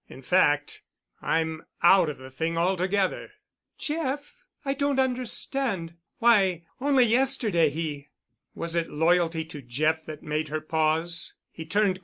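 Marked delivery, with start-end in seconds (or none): 3.8-8.1 a touch higher, lightly voiced woman, startled; young woman caught off guard, a little higher. A narrator's reading. Camilla startled by news of Jeff, lightly voiced woman.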